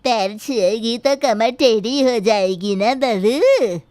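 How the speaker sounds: a sharp-tongued granny taunting her daughter-in-law; stern old grandmother. Acted.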